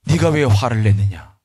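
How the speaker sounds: low, slow, assured rebuke; acted solemn questioning; dignified Jesus. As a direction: address her gravely from authority. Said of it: "당당하게 말씀하시는 겁니다".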